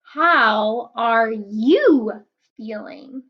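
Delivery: slow storybook question; reading to children. A narrator's reading. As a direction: draw the children in, slowly. Reading the book title.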